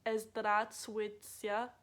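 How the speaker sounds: Здравствуйте drawn out very slowly, ending as a clumsy "tsya"; halting Здравствуйте, stretched towards its faulty last syllable; mispronounced last syllable. Shown as a demonstration. Showing the hard syllable, slow mispronounced Здравствуйте. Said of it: "saying the last part wrong".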